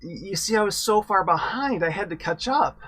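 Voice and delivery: hammed-up sad punchline, pitched high; a put-on pout delivering the joke's punchline; mock sad. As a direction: plead it with a mock sad face. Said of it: "get a sad look on your face and say".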